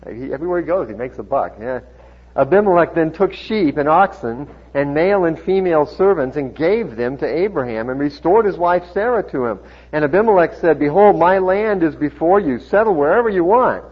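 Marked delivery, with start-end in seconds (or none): 2.3-13.8 loud, steady Bible reading; projected pulpit reading voice; scripture reading. A narrator's reading. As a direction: proclaim the narrative to the congregation. Reads scripture aloud to congregation.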